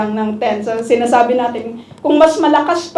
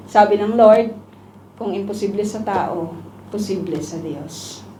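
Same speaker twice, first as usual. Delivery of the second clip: ordinary delivery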